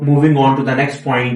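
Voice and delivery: slow, even "Moving on to the next point"; smooth filler phrase demo. Shown as a demonstration. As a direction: say it slowly as a smooth bridge instead of pausing. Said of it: "आप उसकी जगह".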